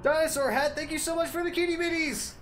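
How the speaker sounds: high, sing-song gushing thanks; thanking a donor in a cutesy voice. Acted. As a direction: squeal thanks like a delighted kid.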